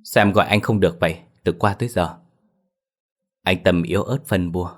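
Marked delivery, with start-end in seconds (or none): 0.0-2.2 fast, louder angry demand. Acted. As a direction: snap at brother for not answering. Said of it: "Chị Linh tức giận".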